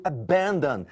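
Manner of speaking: "abandon" stressed on BAN; a-BAN-don, middle syllable leading; stress on second syllable. Shown as a demonstration. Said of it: "a sílaba tônica é a segunda".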